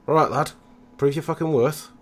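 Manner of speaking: rough boss shouting at a recruit; gruff order. Acted. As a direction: kick him up and bark the order. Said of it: "Len a kick and goes".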